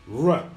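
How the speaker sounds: R like an angry dog; growled English R. Shown as a demonstration. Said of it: "som de cachorro bravo".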